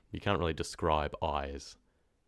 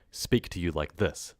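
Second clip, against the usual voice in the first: steady, less pushy address; measured directness; slower than usual. Shown as a demonstration. Narrator showing chat one way of talking, measured. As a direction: speak directly but unhurried. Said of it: "this is how I speak now".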